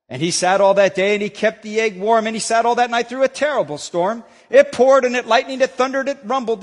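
lively read-aloud storyteller voice; story reading. Acted. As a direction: read it like a children's story to the congregation. Pastor reads Seuss story aloud.

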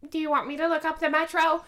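high-pitched imitation of a tween; mock tween voice; imitated tween. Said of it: "then the tween goes".

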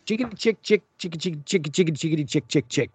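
quick chattering squirrel noises. Retold or imitated. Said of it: "That is squirrel language".

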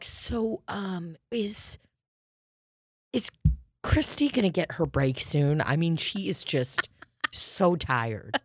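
hint of a meek shopper fussing over a cashier; timid nosy customer. Pretend nosy Walmart shopper asking softly, meek and hesitant. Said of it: "I would never go into a Walmart and be like".

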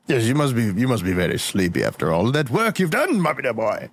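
low tender father voice; tender fatherly. Acted.

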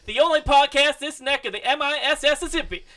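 high twangy host voice; cowboy voice. Pretend.

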